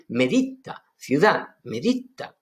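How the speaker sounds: "medita" said with a double t, "meditta"; doubled T. Shown as a demonstration. Teacher showing the Aramaic pronunciation of the word for city. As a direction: hold the t in "medita" longer. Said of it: "se reduplica la T".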